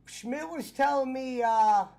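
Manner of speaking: bad connection. Real, not acted. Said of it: "you're breaking up".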